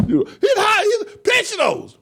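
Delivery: can barely get it out for laughing. Real, not acted. Still laughing at clip.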